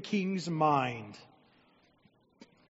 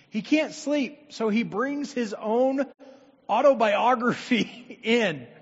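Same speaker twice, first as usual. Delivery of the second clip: amused; 5 semitones higher, 8 dB louder than usual. Real, not acted. Mocking the sleepless king.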